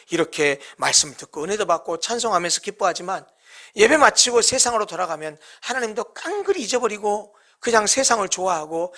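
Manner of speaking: muttering doubts to yourself; fretful self-blaming believer. Retold or imitated. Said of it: "이렇게 스스로를 자책하는 사람도".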